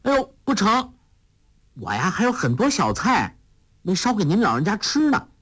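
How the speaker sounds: put-on high, coaxing girlish voice; young girl's voice. A narrator's reading. Huang Rong coaxing Hong Qigong to stay, high girlish voice. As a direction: play the spirited young girl begging her teacher to stay.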